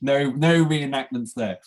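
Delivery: laughing through the question. Real, not acted. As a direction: chuckle while asking, slowly. Joking about the budgie experience.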